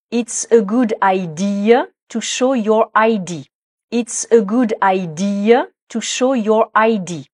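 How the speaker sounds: slow model sentence, IDEA against I D; prononciation précise. Shown as a demonstration. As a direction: say IDEA and I D slowly and distinctly. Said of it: "il faut bien être précis, précise sur la prononciation". (lente diction soignée de « idea » et « I D »)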